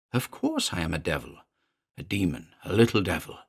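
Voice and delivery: a small demon taunting coldly; a lightly voiced cold imp; cold little demon. Demon mocks Elliot.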